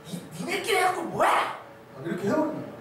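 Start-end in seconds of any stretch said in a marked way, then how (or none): 0.1-1.3 high-pitched mock scolding yell; shouting pastor. Pastor belittling young adults' own Bible study, shouting. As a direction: imitate a pastor berating the group. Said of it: "소리 쳐버린단 말이에요".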